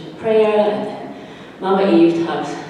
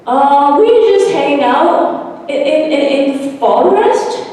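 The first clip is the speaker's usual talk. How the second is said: much higher, slow stammering voice; nervous stutter; 10 semitones higher, 5 dB louder, slower than usual. Acted. Shy forest girl stammering to the children. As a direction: trip over the words, shy of strangers. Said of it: "why do you like to talk like funny".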